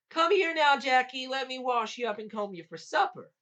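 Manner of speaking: high, loud motherly summons; coaxing giant lady. A narrator's reading. Giant lady luring Jack to be washed, coaxing. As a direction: call him over, all false kindness.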